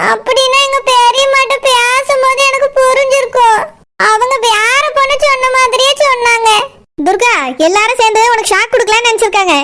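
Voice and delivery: tearful, choked-up talk; crying. Acted. Girl tells her friend through tears, crying.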